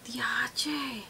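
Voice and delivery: breathless whispered wow; hushed amazement under the breath; whispered diache in awe; whispered exclamation. Real, not acted. Reacting to the effect.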